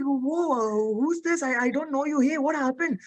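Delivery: lightly acted alarm at a stranger; imitated startled concern. Actor to unknown crying child, startled concern.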